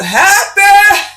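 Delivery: excited happy. Real, not acted. Excited New Year greeting start.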